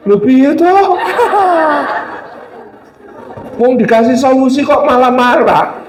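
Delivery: baffled husband chuckling in disbelief; confused husband. Acted. Confused husband asking why his wife is angry, laughing. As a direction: laugh at how absurd it seems. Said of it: "Suaminya bingung".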